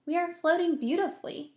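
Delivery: put-on calm boy James. A narrator's reading. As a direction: soothe the frightened friends. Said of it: "said James calmly".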